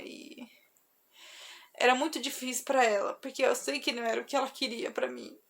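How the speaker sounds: real sadness, softening into hesitation; moved and halting, on the edge of tears; close to crying. Real, not acted. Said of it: "eu ia chorar".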